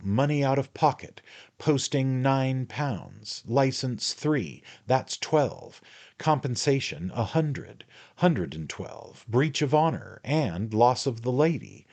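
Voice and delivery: high, terse, slow list of costs; tally it up like a cool haggler; a hint of a jaunty rogue haggling; Jingle, clipped bargaining. Jingle lists his costs.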